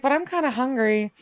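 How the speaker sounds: high, mock-pleading little voice; imitated teenage girl. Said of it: "And she's like".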